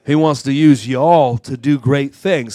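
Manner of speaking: rising preacher shout. Real, not acted. Preacher rousing the congregation.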